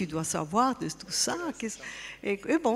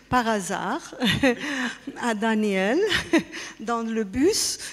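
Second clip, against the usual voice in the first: laughing; 2 semitones higher than usual. Real, not acted. Laughing while recalling chance meeting.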